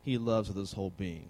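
reading a quotation. Real, not acted. Preacher reads a statement on anger and love to listeners, measured. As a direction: read the statement out evenly, letting it settle down.

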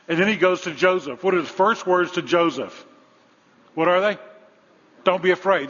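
mounting preacher's fervor; rising emphasis. Real, not acted. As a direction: drive the point home, building. Preacher building to emphatic climax.

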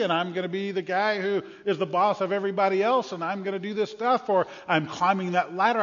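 loud, high, eager bragging; student boasting about his future; ambitious student. Acted. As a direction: dream big out loud.

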